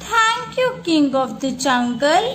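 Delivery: grateful mouse. Acted.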